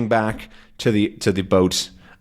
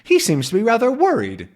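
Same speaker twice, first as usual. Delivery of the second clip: Calculus; 10 semitones higher, faster than usual. Acted. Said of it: "Calculus asks".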